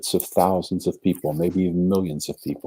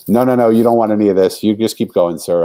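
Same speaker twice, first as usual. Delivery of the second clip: loud, higher, pushy brush-off; retold brush-off; 4 semitones higher, 6 dB louder than usual. Homeless man waving off a stranger, loud and agitated. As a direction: shove the stranger away with your voice. Pushing away a stranger, despairing.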